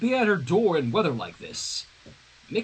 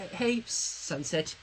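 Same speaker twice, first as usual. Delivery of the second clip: teeth chattering; 7 dB quieter, much slower than usual. Acted. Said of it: "her teeth chattering".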